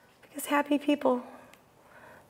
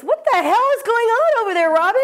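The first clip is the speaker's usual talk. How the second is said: higher, louder startled yell from across the room; shouted call; 8 semitones higher, 7 dB louder than usual. Retold or imitated. Candy yelling across the spa at Robin, startled. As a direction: call out, alarmed and puzzled. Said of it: "and Candy goes".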